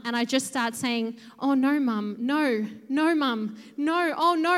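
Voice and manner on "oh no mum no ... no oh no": helpless mock wailing, growing louder; acted crying distress. Daughter frozen before injured mum, hammed-up distressed cry. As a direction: imitate useless, repeated pleading in distress. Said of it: "I just cry and cry".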